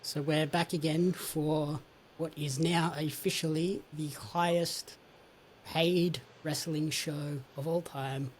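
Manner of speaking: slow, drawn-out stress on "highest" and "paid"; emphasizing highest paid. Acted. Host hyping the record crowd, slow heavy stress on "highest". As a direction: lean hard on "highest", stretch it slowly. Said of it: "you must emphasize the word paid".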